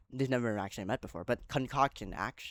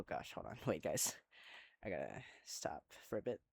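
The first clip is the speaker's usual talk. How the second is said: quick whispered aside; hurried hushed interruption; real whisper; 8 semitones lower, 15 dB quieter than usual. Real, not acted. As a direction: whisper it off-mic as you pause. Aside pausing the recap.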